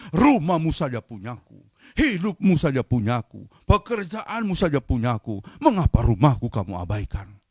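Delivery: stern, emphatic list of claims; mildly indignant preacher voicing God; angry God. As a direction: rebuke them as the rightful owner. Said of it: "Tetapi Tuhan marah".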